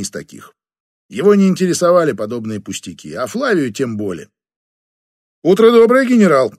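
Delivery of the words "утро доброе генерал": bright, high, loud chirp. Acted. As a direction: chirp it sweetly like a cartoon princess. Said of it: "прощебетала она".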